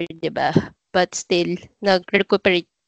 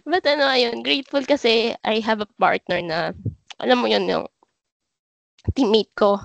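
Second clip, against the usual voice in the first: after crying; 3 semitones higher than usual. Real, not acted.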